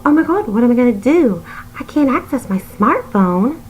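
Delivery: hammed-up dismay in a put-on accent; mock panic. Mimics a complainer's panicked objection.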